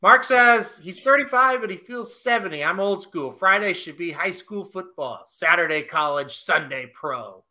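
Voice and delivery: a hint of a grumpy old-timer; old man voice. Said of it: "I try to say that in an old, old man voice".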